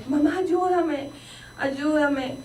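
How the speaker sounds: acting out a frightened daughter begging; retold desperate plea. Daughter's hallucination crisis, acted out.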